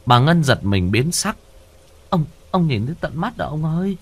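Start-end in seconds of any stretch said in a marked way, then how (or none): 2.1-4.0 high, alarmed woman's voice; a frightened wife asking fast; startled wife voice. Acted.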